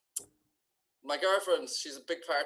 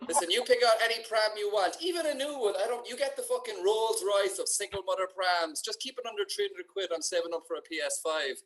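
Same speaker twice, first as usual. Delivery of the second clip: stingy dad. Retold or imitated. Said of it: "And he's like".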